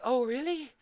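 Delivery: high fake amazement; mocking the raiders' fake surprise; mock surprised guild. Streamer mimics raiders' fake amazement, high and mocking.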